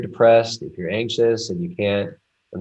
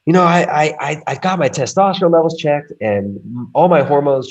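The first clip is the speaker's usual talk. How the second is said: higher, louder retelling as a military mate; lightly acted UK vet, pitched up; British veteran friend; 6 semitones higher, 5 dB louder than usual. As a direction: quote the friend with the voice raised. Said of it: "military vet from the U K".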